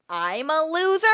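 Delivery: high, offended echo of the insult; indignant echo. Retold or imitated. Girl in the fight repeats the insult back, indignant. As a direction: throw the word back at her, stung. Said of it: "She goes".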